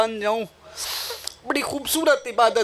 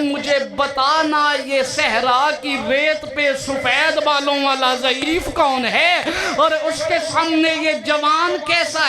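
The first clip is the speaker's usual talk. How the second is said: weeping outcry; 3 semitones higher than usual. Retold or imitated. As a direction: wail it out as if the grief breaks through. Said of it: "ज़ईफ़ा रो के कहती है".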